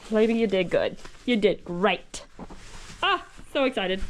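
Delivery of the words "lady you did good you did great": low, gentle praise; tender praise. Real, not acted. Praising the mare.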